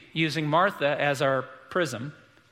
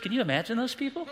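mock outrage; 6 semitones higher, 4 dB quieter, faster than usual. Mock outrage at liars in church.

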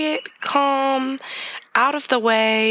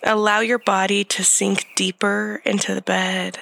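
guided meditation. Acted. Leads a breathing meditation.

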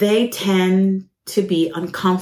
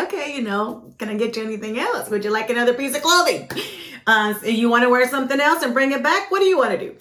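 polite service voice; 4 semitones higher, faster than usual. Shown as a demonstration. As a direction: sound like a friendly sales assistant. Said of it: "You're supposed to say".

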